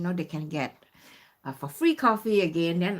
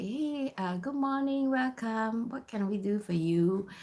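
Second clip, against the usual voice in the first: sweet greeting; 2 semitones higher than usual. Retold or imitated. Students greeting a customer at the counter, sweetly. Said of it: "students are really sweet and they say".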